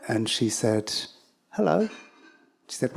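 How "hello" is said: high, chirpy robot hello; lightly voiced robot greeting; mock robot hello.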